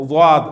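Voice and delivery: واد said as the Arabic daad, between dal and zoe; daad demo. Shown as a demonstration. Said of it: "یہ درمیانی آواز ہے".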